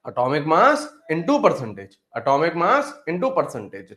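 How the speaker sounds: very slow, measured repetition; slow dictation. Real, not acted. Teacher repeating the formula for students to write, slow dictation.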